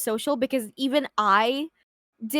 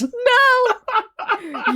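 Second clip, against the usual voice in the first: shrieking; 10 semitones higher, 5 dB louder than usual. Real, not acted. Mortified shriek.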